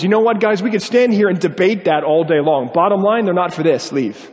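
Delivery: mildly exasperated retelling; frustrated. Retold or imitated. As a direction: imitate a frustrated man shutting down debate. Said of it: "He gets understandably frustrated at that point".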